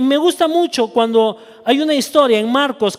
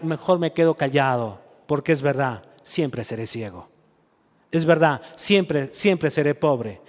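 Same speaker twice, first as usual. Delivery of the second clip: defeated resignation; 5 semitones lower than usual. Retold or imitated. A defeated believer telling himself he'll stay blind and poor, resigned. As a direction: murmur it like someone who has lost hope.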